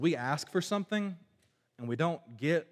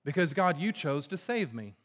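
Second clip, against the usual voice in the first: higher, louder rejoicing prayer; joyful praise; 4 semitones higher, 3 dB louder than usual. Retold or imitated. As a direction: lift it up like a happy thanksgiving. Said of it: "talks about it in this positive way".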